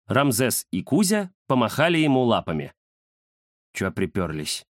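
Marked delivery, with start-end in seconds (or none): 3.7-4.7 низко и тише, недовольно; буркнуть незваным гостям. Acted. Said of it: "недовольно буркнул Захар". (Захар недовольно бурчит гостям)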